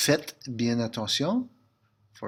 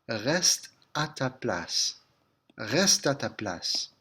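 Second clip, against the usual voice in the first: slow drill; slower than usual. Shown as a demonstration. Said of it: "If it's familiar".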